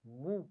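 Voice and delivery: مو said with closed lips opening into a short round u, not nasal; مو said short and even, no drag and no jolt; model syllable. Shown as a demonstration. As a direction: press the lips for m, then a short clean مو. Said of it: "مجھے دیکھیے غور سے".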